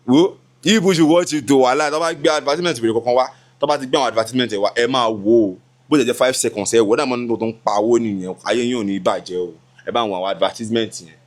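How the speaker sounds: excited pleading. Real, not acted. Vlogger urges viewers to sit through the ads, excited and fast.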